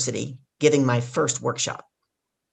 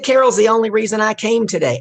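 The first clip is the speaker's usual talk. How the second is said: loud, raised, booming announcement; 7 semitones higher, 6 dB louder than usual. Retold or imitated. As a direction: proclaim it for the whole room to hear. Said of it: "this man with this booming voice".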